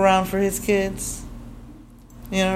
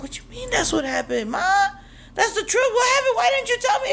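upset shout; faster than usual. Retold or imitated. Daughter confronting mom about the van, high upset yell. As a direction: demand answers from your mom.

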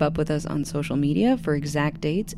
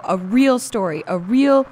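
pleading; 5 semitones higher, 7 dB louder than usual. Acted. Begging for a real story.

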